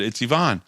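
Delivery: Yvonne said ee-VAHN; Yvonne with EE start, stressed open AH; correct name pronunciation. Retold or imitated. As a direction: land Yvonne on a falling VAHN. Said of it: "That's how you say it".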